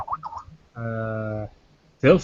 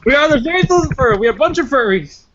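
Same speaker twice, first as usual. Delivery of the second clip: squeaky high mock proclamation, louder; mocking parody; 10 semitones higher, 4 dB louder than usual. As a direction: parody the name with a silly high voice. Mocking the misheard faction name.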